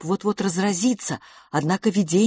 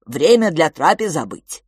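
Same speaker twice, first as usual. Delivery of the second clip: louder broken-speech creature; cheerful creature voice; 6 dB louder than usual. Acted. Creature announces mealtime to the twins, cheerfully.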